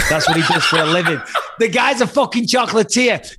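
cracking up mid-sentence; laughing. Real, not acted. Host laughing as he reveals the bouncer's day job.

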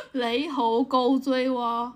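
giggling through the words; laughing. Real, not acted. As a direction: laugh while saying it. Mixed dialect joke, laughing.

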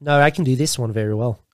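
easy-going Aussie accent; Australian accent. Shown as a demonstration. Showing friends his good one, Australian accent. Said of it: "You're Australia. That one is good".

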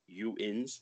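"you ins" slowly split into two words; sounded-out contraction. Shown as a demonstration. Explaining yins to co-host, "you ins" slowly sounded out. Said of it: "it would be a contraction of".

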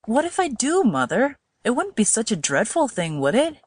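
gently coaxing son, lilting upward; a touch of careful patience; forced gentleness. A narrator's reading. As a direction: reason with her gently. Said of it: "forced himself to speak gently".

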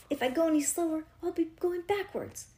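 high, put-on kid voice; high-pitched protest. A narrator's reading. Child character protests in story.

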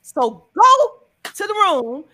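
high, loud excited pitch; excited hype. Real, not acted. Host urging listeners to get tickets, excited hype. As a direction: hype them up to grab tickets.

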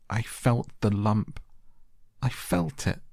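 put-on high, distressed boy's voice, mildly choked. A narrator's reading. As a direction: insist desperately, pitch leaping up. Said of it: "choked out Colin".

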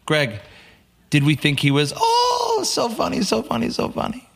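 a teacher mocking the class, his "so funny" swooping way up and sing-song. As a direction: ham up the cutthroat teacher's fake gush, then drop to dead serious. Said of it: "He goes".

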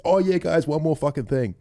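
put-on high, loud drunk yell; town drunk. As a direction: shout the send-off like a drunk. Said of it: "and then he said".

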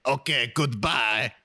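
slow, put-on butler sign-off; drawn-out mock-formal farewell; Pierre the butler. Butler ends the transferred phone call, slow and hammed-up. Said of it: "transfer you over to Pierre".

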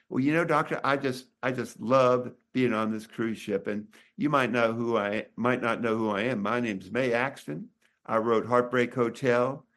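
imitating a Southern woman, lightly done; amateur attempt at a Southern accent. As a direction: introduce yourself in a mild mock-Southern voice. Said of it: "she said with a Southern accent".

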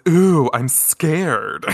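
slow, sarcastic fake fright; drawn-out sarcasm, not scared at all; mock scared. She don't give a shit about these men.

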